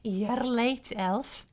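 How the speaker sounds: Scottish-sounding dwarf; amateur dwarf brogue, half Scottish; Dwarven accent. Acted. Streamer tries out a dwarf greeting an elf, in Dwarven accent. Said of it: "I just sound Scottish or Irish".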